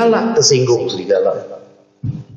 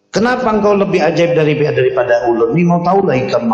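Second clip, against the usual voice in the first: lightly voiced wolf; 3 semitones higher than usual. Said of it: "Apa kata si serigala?".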